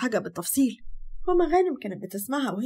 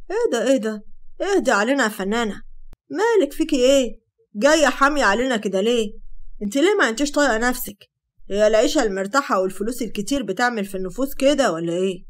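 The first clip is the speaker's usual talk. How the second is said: mocking and riled, a bit louder; sarcastic anger; 3 dB louder than usual. Hamasa jeering at Sara for her temper, sarcastic and angry. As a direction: jeer at her as a spoiled star. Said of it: "بصلها بسخرية وغضب وقال".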